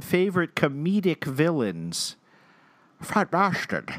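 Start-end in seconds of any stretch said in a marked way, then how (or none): 3.0-3.9 put-on Scottish accent. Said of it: "I cannot do a Scottish accent at all".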